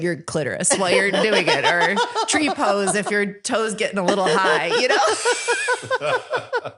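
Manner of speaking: bawdy joke breaking into laughter; laughing. Real, not acted. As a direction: crack up as you tell it.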